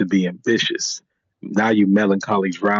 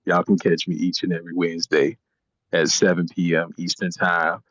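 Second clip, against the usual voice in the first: extra deep voice; 4 semitones lower, 3 dB quieter than usual. Acted. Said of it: "he put on an extra deep voice".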